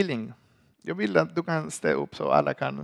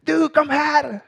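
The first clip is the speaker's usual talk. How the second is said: high, sharp summons; imitating the teacher calling his brother; mock teacher call; 10 semitones higher, 5 dB louder, slower than usual. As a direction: beckon him to come. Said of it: "Jag var like".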